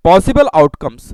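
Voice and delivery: very slow, word by word; slow dictation. Shown as a demonstration. Teacher dictating the outcomes to students, very slow. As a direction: read it out slowly for notes. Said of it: "धीरे धीरे मैं पढ़ रहा हूँ".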